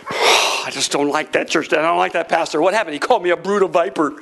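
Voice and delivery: lightly voiced low grumbler; grumbling churchgoer. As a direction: mimic a disgruntled member, pitched a little low. Mimics a grumbling church member.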